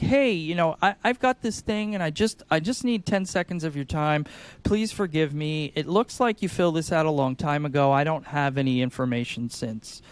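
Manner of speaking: mildly confused caller asking for help; sing-songy confused. Shown as a demonstration. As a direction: sound a little lost and sorry. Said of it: "Man, I'm confused, I'm sing-songy".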